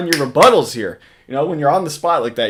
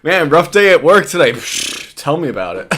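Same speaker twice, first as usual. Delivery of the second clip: brushing it off; 2 semitones higher, 3 dB louder than usual. Retold or imitated. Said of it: "brushing it off like".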